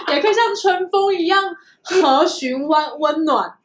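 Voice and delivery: drawn out, slow and deliberate; slow reading. Retold or imitated. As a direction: stretch each phrase out. Reading profile very slowly.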